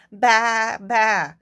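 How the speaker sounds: a light, mild bleat; goat bleating. Acted. Goat asking the librarian for something, bleating. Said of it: "All he heard was".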